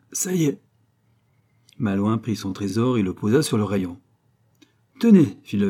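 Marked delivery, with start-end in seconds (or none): 0.1-0.6 higher-pitched triumphant announcement. A narrator's reading. Old locksmith to Malouin as the last wheel stops, triumphant. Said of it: "avec un air de triomphe, déclara". 5.0-5.4 high, loud call to look; excited old craftsman. A narrator's reading. Old locksmith showing Malouin the finished door, excited.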